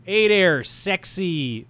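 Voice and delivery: slow, flirty attempt at a New York accent. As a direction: come on to someone in shaky New York accent. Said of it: "trying to do a New York accent".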